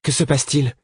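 put-on startled high cry of a young girl; a girl calling out in surprise; exclaiming. A narrator's reading. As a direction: blurt it out, wide-eyed and amazed. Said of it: "s'exclama Horty".

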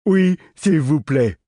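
high, slow, eager little man; halfling. Acted. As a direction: beg sweetly like a happy child. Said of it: "s'exclama le petit homme".

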